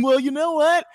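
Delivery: lightly put-on mocking fanboy; asshole voice. Host mocking an imagined Nintendo fan, asshole voice. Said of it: "that's my asshole voice".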